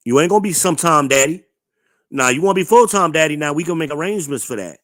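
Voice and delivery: fast, heated scolding; heated rant. Real, not acted. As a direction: rattle it off like a lecture to a deadbeat dad.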